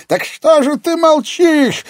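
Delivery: put-on an old baron bursting out greedily; slow, high, loud old man's exclamation; eager old man's exclamation. A narrator's reading. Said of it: "воскликнул старик".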